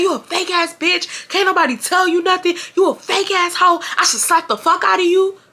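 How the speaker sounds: high-pitched retold tirade; high mock yell at moderate volume; mock screaming. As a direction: imitate an angry friend screaming in your face. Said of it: "This hoe is screaming in my face".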